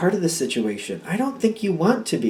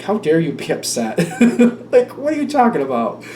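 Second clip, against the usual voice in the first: indignant questions breaking into laughter; laughing annoyance. Real, not acted. Reader scolding the upset person in the cards, amused annoyance. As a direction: protest it while laughing. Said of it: "I'm really getting annoyed with it".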